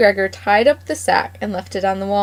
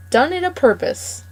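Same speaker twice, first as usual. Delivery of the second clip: higher, accusing snap; wife accusing her husband, higher pitched; a hint of an angry old wife; 7 semitones higher than usual. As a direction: fling the accusation. Mrs McGregor's angry accusation quoted.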